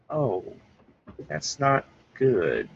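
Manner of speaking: mock letdown, drawn out slowly; a slow, let-down realization; mildly sad reaction. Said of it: "you're kinda sad".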